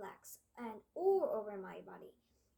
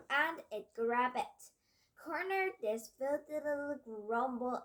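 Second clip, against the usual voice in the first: commanding witch; 2 semitones higher, 4 dB louder than usual. Acted. Grand High Witch giving orders.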